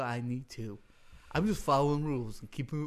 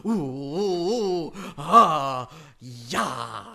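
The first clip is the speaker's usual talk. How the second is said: grandiose, drawn-out bellowed entrance; overly excited; 6 semitones higher, 9 dB louder, much slower than usual. Pretend. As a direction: belt out the name much higher and louder, then wild whoops. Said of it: "overly excited".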